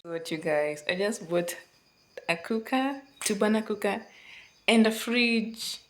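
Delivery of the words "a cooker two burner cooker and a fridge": bursting with excitement; excited shout. Real, not acted. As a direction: shout the joy out. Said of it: "I am so excited".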